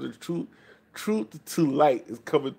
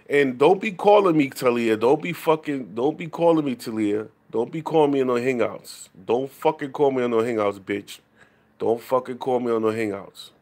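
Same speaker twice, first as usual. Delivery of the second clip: loud, emphatic telling-off; real anger, hammering each repeated demand; irritated scolding; 4 dB louder than usual. Real, not acted. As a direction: warn them off with rising annoyance. Angrily telling callers to stop.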